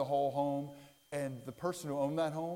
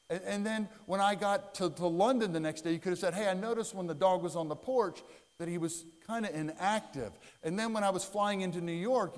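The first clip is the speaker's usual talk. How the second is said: scolding wife; 4 semitones higher than usual. Retold or imitated. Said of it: "She goes".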